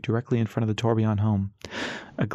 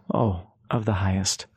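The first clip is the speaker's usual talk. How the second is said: smiling; 3 semitones lower, slower than usual. Acted. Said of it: "he smiled".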